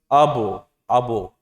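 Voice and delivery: abo with the ba wrongly rounded to O; wrong thick bounce. Shown as a demonstration. Teacher mocks a wrong thin-letter reading, rounded O. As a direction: say abo as the error. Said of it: "Jadi bunyinya nggak boleh".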